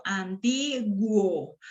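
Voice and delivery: slow, separated syllables; drawn-out teacher's syllabification. Shown as a demonstration. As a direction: sound out each syllable in turn. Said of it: "esas serían las sílabas".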